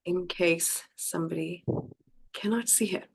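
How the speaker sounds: under her breath while setting up; quick whisper to herself; whispered aside. Real, not acted. Muttering to herself while fixing the stream, whispered.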